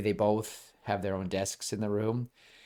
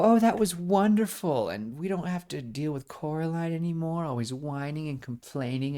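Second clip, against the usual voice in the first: gushing fake parents; 7 semitones higher than usual. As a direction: play the perfect parents, smug and delighted. Other parents gloat, Coraline watches.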